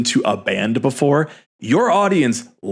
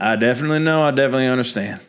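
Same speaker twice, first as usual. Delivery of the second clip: put-on old man voice; much faster than usual. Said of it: "an eighty-year-old would go".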